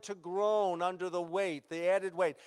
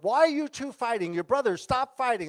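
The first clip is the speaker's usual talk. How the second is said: higher, louder acted rebuke; raised-voice scolding; 5 semitones higher, 6 dB louder than usual. Moses to two fighting Israelites, scolding.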